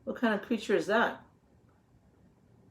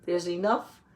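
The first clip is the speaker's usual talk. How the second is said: lively picture-book read-aloud, a little louder; reading to children; 4 dB louder than usual. A narrator's reading. Teacher reading the garden book to the children, storybook voice. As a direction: read the page out to the class, with relish.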